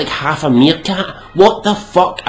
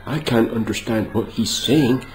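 mock American; 7 semitones lower, 7 dB quieter than usual. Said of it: "these Americans going".

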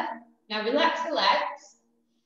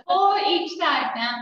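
slow, strained, laughing through pain; sore muscles; slower than usual. Real, not acted. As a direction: count it out while aching. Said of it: "my legs are killing today".

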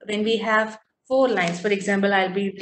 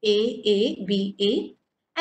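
A A B A, letters spaced out slowly; slow spelled scheme; 2 semitones lower, much slower than usual. Shown as a demonstration. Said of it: "has this rhyme scheme".

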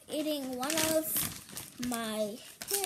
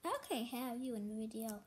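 hushed aside; 5 semitones lower, 10 dB quieter than usual. Real, not acted.

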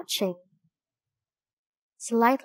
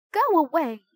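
a village woman yells at the ravens, higher and louder; yelling; 7 semitones higher, 3 dB louder, faster than usual. A narrator's reading. Woman chasing ravens from the village: angry yell. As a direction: shoo the birds off with a sharp yell. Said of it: "a woman yelled at the ravens".

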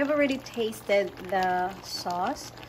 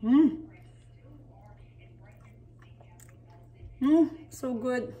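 delighted mm; 3 semitones higher, 4 dB louder than usual. Real, not acted. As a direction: savour it out loud. Tasting the food.

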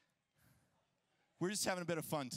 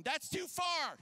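wife calling them back, higher; mock worried yell; retold yelling; 8 semitones higher than usual. Wife yelling at them to come back, in a mild mock yell. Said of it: "She's yelling".

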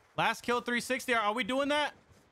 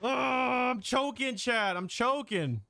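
drawn-out whining cry of frustration; slow, wailing gamer despair; anguished wail; 3 semitones higher, slower than usual. Real, not acted. Missing shots, wailing at Chad.

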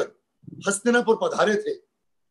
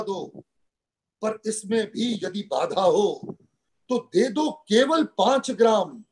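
dramatic poem recitation. Acted. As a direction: declaim the verse in measured, emphatic phrases.

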